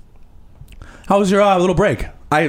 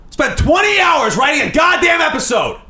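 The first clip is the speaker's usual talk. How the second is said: furious shout; 4 dB louder than usual. Acted. Host raging at crew over a ruined episode, shouting. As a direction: yell it out in disgust.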